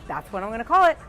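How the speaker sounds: proud proclamation. Retold or imitated. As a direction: crown the name, building to Hollywood. Whitley proclaiming the name.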